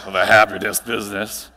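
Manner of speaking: mock a cynical colleague rolling their eyes; sarcastic mock quote. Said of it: "you say".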